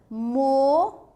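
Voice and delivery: "moça" drawn out with a long hissed ç; S sound. Shown as a demonstration. Teacher presenting the next word, held S sound. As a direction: stretch "moça" into "mo" and a held "sssa". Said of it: "C cedilha tendo som de S".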